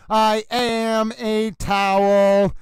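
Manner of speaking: towel proudly announcing itself; hammed-up towel character; Little Towel voice. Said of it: "You got Little Towel back".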